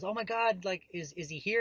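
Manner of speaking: retold excited gushing; excited banker. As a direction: imitate a delighted friend asking about the baby. Banker excited about newborn baby.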